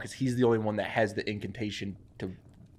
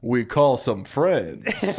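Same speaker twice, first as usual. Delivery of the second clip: slow, deadpan promise; drawn out and unbothered; calm skeleton reply; 3 dB louder, much slower than usual. Acted. The skeleton answers her, slow and deadpan. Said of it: "And he goes".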